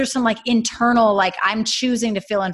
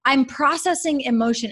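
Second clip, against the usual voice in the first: bright retold; 7 semitones higher, 3 dB louder than usual. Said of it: "No, I told him".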